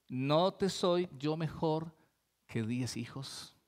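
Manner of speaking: a husband tenderly reassuring his wife; loving. Retold or imitated. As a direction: let the question fall gently, full of love. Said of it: "Le habló amorosamente".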